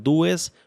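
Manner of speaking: "dues" sounded letter by letter as in Spanish, du-es; read as written. Shown as a demonstration. Tutor repeating the example word, "dues" read as written. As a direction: pronounce "dues" just as it is spelled. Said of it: "la voy a pronunciar así tal cual".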